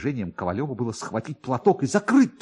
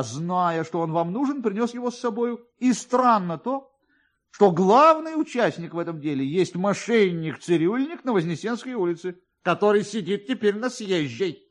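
higher, fast, rambling official voice; chatty police officer; 8 semitones higher than usual. A narrator's reading. Police officer rambles to Kovalyov about finding the nose, higher and fast. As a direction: prattle on like a fussy, self-pleased clerk.

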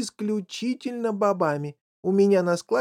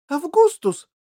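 high, loud cry of outrage; loud shout; 12 semitones higher, 8 dB louder than usual. A narrator's reading. Factory owner catching the boy drinking, loud shout. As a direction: shout the name sharply. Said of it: "громко закричал он".

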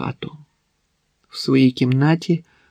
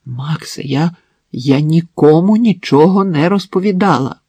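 insistent, louder denial; stubborn repeating; 4 semitones higher, 4 dB louder than usual. Acted. Wife stubbornly repeats her denial to Max. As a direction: hold your ground, repeat it firmly. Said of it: "вперто повторила Марина".

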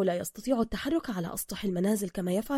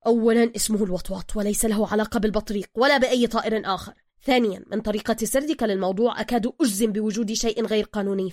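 angry; 6 dB louder than usual. Acted. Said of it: "بروس حانقًا".

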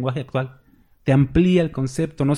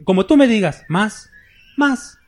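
loud, high mock preacher commanding the Spirit; mock decreeing preacher; 6 semitones higher, 3 dB louder, slower than usual. Preacher mocking those who command the Holy Spirit, shouting high. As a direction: ham up a preacher ordering the Holy Spirit to touch people. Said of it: "¿No han visto un predicador que dice así?".

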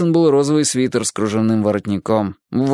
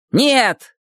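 shout; 13 semitones higher, 4 dB louder than usual. A narrator's reading. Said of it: "прокричала в ответ Гарриет".

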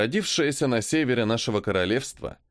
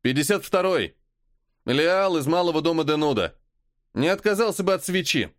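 shouting; 5 semitones higher than usual. Acted. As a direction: shout down the corridor. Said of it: "крикнул".

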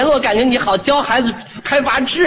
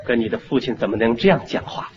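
deep, stern scolding father voice; 10 semitones lower, 5 dB quieter than usual. Pretend. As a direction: play the strict father putting his son in place. Father acting stern to son.

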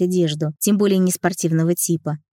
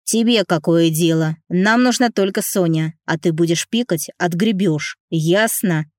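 menacing bandit. Acted. Bandit threatening the heroine, understated menace. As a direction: lean on her with mild menace. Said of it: "грозно сказал бандит".

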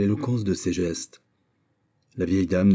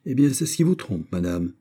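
higher, exasperated snap back; exasperated retort; 4 semitones higher than usual. Acted. Montalais answers her accuser, exasperated and higher. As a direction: lose patience with the old lady. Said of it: "dit Montalais exaspéré".

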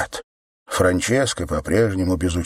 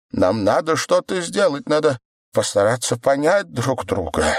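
put-on trembling childlike voice; 4 semitones higher than usual. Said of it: "дрожащим, почти детским голоском".

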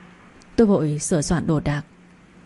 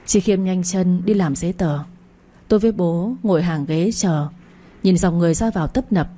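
ordinary delivery, nothing marked

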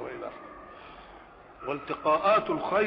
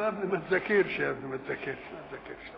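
sarcastic threat; 3 semitones lower, 3 dB quieter, faster than usual. Retold or imitated. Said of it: "الله، ده امر تهديدي".

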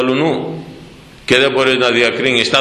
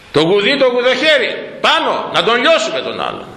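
high-pitched mock insistence; mocking stubbornness; 9 semitones higher than usual. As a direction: parody someone set on crushing others. Mocking people set on judging others.

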